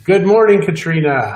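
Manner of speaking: high, loud call of good morning; loud greeting. Real, not acted. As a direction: project it brightly to be heard. Greets after urging louder speech.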